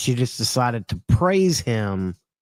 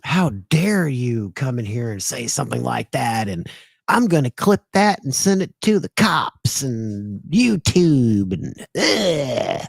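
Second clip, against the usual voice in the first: hammed-up hysterical rant; mock hysterical woman; 2 semitones higher than usual. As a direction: imitate her frantic threat. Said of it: "she goes fucking hysterical".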